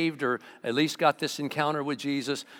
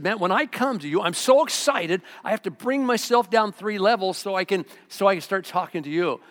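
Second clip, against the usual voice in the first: excited Paul; 5 semitones higher, 5 dB louder than usual. Retold or imitated. Paul voiced as overexcited.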